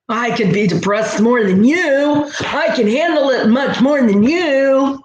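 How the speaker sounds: lightly voiced competitive martyr; a hint of a proud sufferer; mock boast. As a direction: brag about coping, half-mocking. Mocking boastful depressed person.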